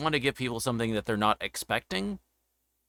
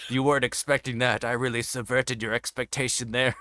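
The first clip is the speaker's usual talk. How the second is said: gloating hammy villain laugh; sneering panto villain; 2 semitones higher, 3 dB louder than usual. Pretend. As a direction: cackle like a smug cartoon baddie. Continues gloating villain bit.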